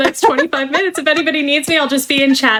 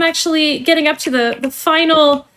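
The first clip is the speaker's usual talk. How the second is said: polished corporate trainer voice; cheerful company onboarding spiel; customer service voice; slower than usual. Acted. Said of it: "let me put away my customer service voice now".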